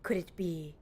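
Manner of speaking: lightly voiced pompous inspector, grandly proclaiming; a touch of a theatrical self-important detective; mild hammed-up gentleman sleuth; Hildebrand voice.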